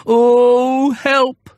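high startled yelp; falling cry for help. Acted. Bear falling from the branch cries out, high and alarmed. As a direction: cry out as you drop.

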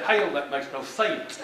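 Hell said as heyl, a Texan scoff; flat Texan dismissal, a bit slow; Texas drawl. Retold or imitated. Speaker repeats the Texan phrase, in a Texas drawl. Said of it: "That's how they would say that".

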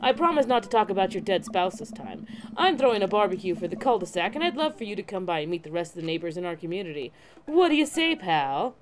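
friendly neighbor with a big smile in it; lively, slightly pushy welcome; cheery neighbor. Acted. Joseph invites the new dad to his barbecue, cheery neighborly voice. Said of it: "standing there with a huge smile".

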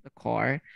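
"The car" with THE said duh. Shown as a demonstration. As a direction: model "The car", duh before the consonant. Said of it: "voy a pronunciar".

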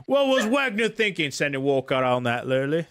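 Londoner ranting about the match; London pub accent. Shown as a demonstration. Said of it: "Oh, perfect, perfect".

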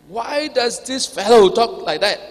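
a drawn-out, acted objection; debating challenge. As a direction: question it emphatically, as the objecting scribes. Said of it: "thinking and debating among themselves".

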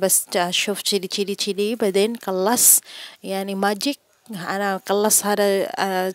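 retold angry protest to the employer; angry retort. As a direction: fire back at the boss, fed up. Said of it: "nagalit talaga ako sobra".

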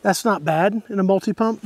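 winded after pumping the rifle; breathing hard between words. Real, not acted. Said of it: "I'm a little bit out of breath".

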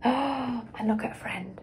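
soft gasp, then a delighted whisper. Acted. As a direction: share the happy secret in a whisper. Delighted aside to listeners.

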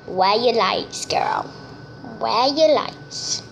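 slow, drawn-out sassy "Where your lights"; sassy questioning. Retold or imitated. Asking the girl about her missing lights, slow sassy drawl. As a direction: stretch the question out to mock her. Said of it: "I'm gonna ask her".

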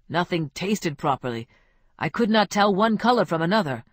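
lightly voiced confiding friend; a hint of Ramon. Ramon consoling Ruben with his own heartbreak, lightly voiced. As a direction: commiserate man to man.

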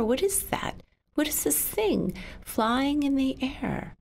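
put-on a child spotting a flying thing, startled; startled wonder. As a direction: gasp at something in the air.

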